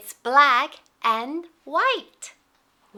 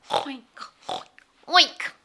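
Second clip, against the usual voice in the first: pig oink. Shown as a demonstration. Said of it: "Let's oink together".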